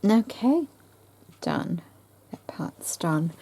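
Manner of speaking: talking between hiccups; hiccuping through the words. Real, not acted. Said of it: "Oh, I've got the hiccups again".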